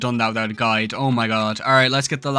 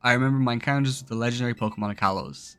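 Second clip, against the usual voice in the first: soft, measured read-aloud of a farewell letter; 4 dB quieter than usual. Acted.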